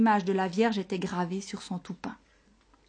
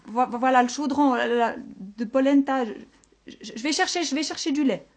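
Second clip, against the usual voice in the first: stammering, higher-pitched terrified shepherd; trembling voice; 5 semitones higher, 5 dB louder than usual. A narrator's reading. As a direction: stutter it out in fright. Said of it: "proposa d'une voix tremblante". (voix tremblante et bégayante)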